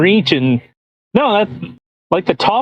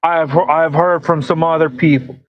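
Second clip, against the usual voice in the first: Trump; 4 semitones higher than usual. Pretend. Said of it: "You do a Trump voice".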